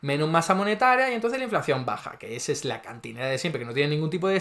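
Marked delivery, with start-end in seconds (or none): 0.0-2.2 high, mocking take on the rival's excuse; sarcastic imitation of liberal economists; mocking opponent. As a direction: parrot the other side's argument. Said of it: "que nadie me venga a decir".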